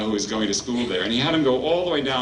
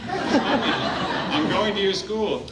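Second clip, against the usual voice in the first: put-on higher, laughing plea of a boy; pleading boy; 9 semitones higher than usual. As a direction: lightly voice a boy begging to stay.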